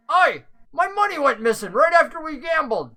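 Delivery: angrily blames him for the missing money; angry NPC. Acted. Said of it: "He's like".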